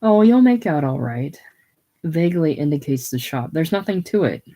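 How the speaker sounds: firm, reassuring and emphatic; emphatic assurance. Acted. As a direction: insist he'll be fine. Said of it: "emphatic assurance".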